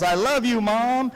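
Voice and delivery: mock yell. Dad retelling a kid's shout at graduation, mild mock yell. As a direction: call it out like a graduate, without full volume. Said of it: "some kid yells".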